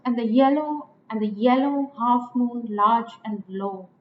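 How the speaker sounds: "and the" light, "yellow" stressed; metrical stress. Shown as a demonstration. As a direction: scan the verse, leaning on "yellow". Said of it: "two unstressed followed by a stressed".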